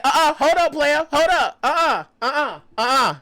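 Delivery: high, loud refusal in bursts; loud objection. Retold or imitated. Storyteller replaying himself stopping a stranger, loud objection.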